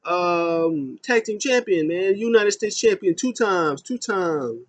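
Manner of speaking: high, loud mock rant; hammed-up angry tirade listing his titles; Kalisto yelling. Kalisto yelling at Lindsay Dorado after losing, high loud mock rant. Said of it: "he's yelling at Lindsay Dema".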